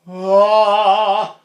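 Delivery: loud, high open sigh on ah; navel sigh. Shown as a demonstration. Voice teacher demonstrating the navel sigh loudly. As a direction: let a big sigh drop from the belly. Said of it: "a sigh at the navel or below".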